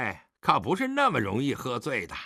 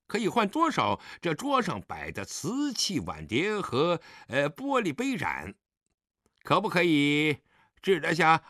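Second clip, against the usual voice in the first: mild mocking swagger; insolent, tipsy goading; sneering; 4 semitones higher than usual. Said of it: "狄景辉冷笑道".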